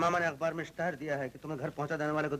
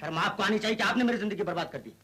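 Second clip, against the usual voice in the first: louder, higher, indignant retort; raised voice of bitter reproach; angry accusation; 4 semitones higher, 4 dB louder than usual. Acted. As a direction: throw the blame back angrily. Accused man turns blame on doctor.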